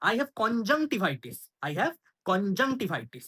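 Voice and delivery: very slow, clear teacher read; slow model phrase. Shown as a demonstration. Teacher models the English phrase, very slowly. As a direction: spell it out slowly for learners. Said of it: "অথবা".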